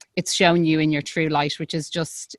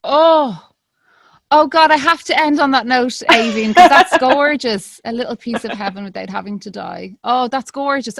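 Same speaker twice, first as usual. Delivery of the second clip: higher, choked-up gush of real feeling; moved, emotional; 6 semitones higher than usual. Real, not acted. Host genuinely moved by guest's answer, emotional. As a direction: overcome by a friend's lovely words. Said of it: "that made me totes emotional".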